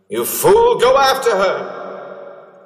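high, loud and urgent; shouting. Acted. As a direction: yell it desperately at him. Urgent shout at his past self.

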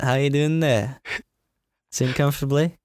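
badly faked British small talk; bad British accent. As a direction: imitate a hammy British accent. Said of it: "really bad British accent".

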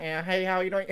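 muffled mock scuba-diver voice; weird scuba voice. Imitating people going scuba diving, weird muffled voice. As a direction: talk as if through diving gear. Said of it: "they have that weird voice".

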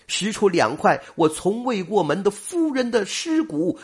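high, loud anguished calling; loud grieving cry. A narrator's reading. Grieving suitor at the grave calling to his lost bride, high and loud. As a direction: cry out the grief, voice pitched well up. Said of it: "忽然大声说道".

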